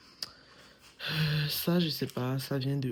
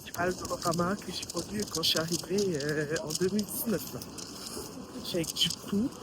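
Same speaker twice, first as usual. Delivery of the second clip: shouting over wind; 3 dB louder than usual. Real, not acted. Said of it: "il y a énormément de vent".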